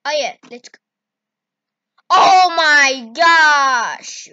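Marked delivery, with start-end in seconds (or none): 2.1-4.3 surprised. Real, not acted. Surprise at the clay.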